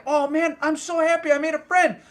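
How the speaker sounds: high, quick bug voice; happy little bug. Retold or imitated. Bug buzzes round her face, high and overjoyed. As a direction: gush like a bug thrilled with its new friend.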